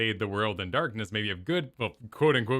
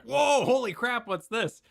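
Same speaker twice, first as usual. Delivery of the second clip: high, slow startled gasp; mock surprise; 13 semitones higher, slower than usual. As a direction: act shocked, drawn out. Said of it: "other people are like".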